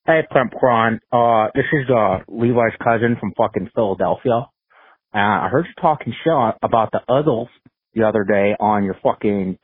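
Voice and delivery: put-on brash Philadelphia accent, tough guy; a cocky Philly accent, picking a fight. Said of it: "I'm working on my Philly accent".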